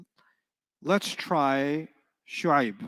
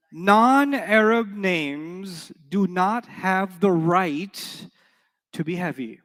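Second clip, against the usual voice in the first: slow, drawn-out teaching emphasis; slow emphatic; much slower than usual. Shown as a demonstration. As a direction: spell it out slowly for the class. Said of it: "slow emphatic teaching".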